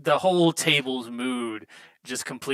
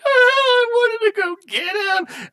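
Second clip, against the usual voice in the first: very high, sobbing wail; grieving dwarf breaks into loud sobs; bawling dwarf; 6 dB louder than usual. Acted. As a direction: cry it out like a dwarf who lost his friend. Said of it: "he just starts crying. He's, like, bawling".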